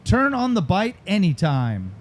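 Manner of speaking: slow slogan announcement; deliberate commercial tagline; tagline read-out. Shown as a demonstration. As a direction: present the line like an ad. Host repeats tagline for newcomers.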